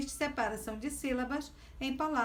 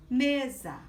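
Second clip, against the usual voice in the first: "Mesa" louder and drawn out, me-za; split into syllables; 6 dB louder than usual. Shown as a demonstration. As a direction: stretch both syllables of "Mesa". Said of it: "Você abre".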